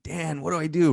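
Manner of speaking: yelled question to a friend; yelling to buddy. Retold or imitated. Calling to his buddy across the club, yelled. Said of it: "So I yelled to my buddy Dan".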